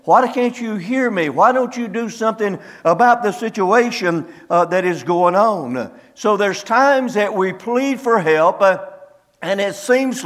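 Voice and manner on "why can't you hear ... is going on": a pleading cry to God, pitched higher. Retold or imitated. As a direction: beg God for an answer, voice lifted. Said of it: "you begin to cry out unto God".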